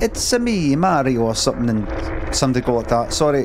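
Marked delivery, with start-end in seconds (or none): 0.0-1.2 high, sing-out Mario catchphrase; Mario impression. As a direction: pitch it up high like Mario announcing himself. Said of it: "I'd go like that".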